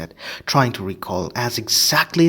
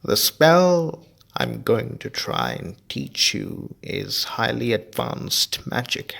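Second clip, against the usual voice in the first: a careful teacher weighing each word; Lupin teaching; 3 semitones higher, 4 dB louder than usual. Acted.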